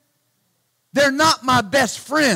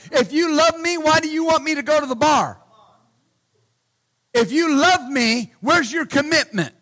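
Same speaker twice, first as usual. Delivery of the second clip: building preaching; 3 semitones higher than usual. Acted.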